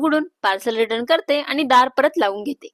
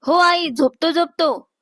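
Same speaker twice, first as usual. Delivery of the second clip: higher-pitched hasty reassurance; calling back; 5 semitones higher, slower than usual. Acted. Daughter answering mother's call, calling back.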